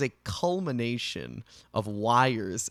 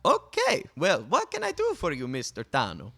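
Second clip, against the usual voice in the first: high, chirpy, overly formal stranger; cheerful formal townsperson voice; overly polite NPC; 4 semitones higher than usual. Acted.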